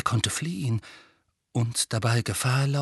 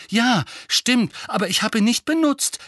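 higher, louder angry protest; zornig; 12 semitones higher, 5 dB louder than usual. A narrator's reading. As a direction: protest hotly in self-defence. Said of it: "begann Harry zornig". (zorniger, lauter Widerspruch)

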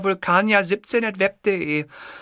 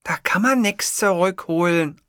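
irritated. Acted. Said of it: "antwortete sie gereizt".

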